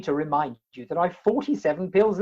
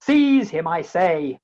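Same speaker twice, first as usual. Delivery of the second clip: loud barked order to seize him; loud demand, insisting; commanding shout; 2 semitones lower, 6 dB louder, slower than usual. Acted. Ordering officer to seize man.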